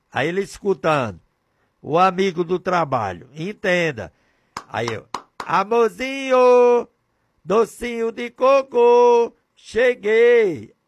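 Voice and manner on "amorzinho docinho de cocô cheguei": high, slow, hammed-up doting voice; mock sweet husband. Preacher showing husband greeting wife, hammed-up sweet. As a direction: overdo the sugary pet names.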